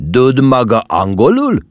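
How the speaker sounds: loud, high, menacing demand; ominous. A narrator's reading. Officer leans over the counter at mama, ominous. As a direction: press the question with a threat in it. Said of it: "vészjóslóan áthajolva a pulton".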